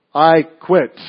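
lightly voiced fed-up monk; monk quitting. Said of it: "He says".

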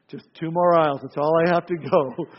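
hammed-up frazzled mom coaxing herself along; worn-out mother. Preacher plays the tired mother Ellen, comic weary sigh-voice.

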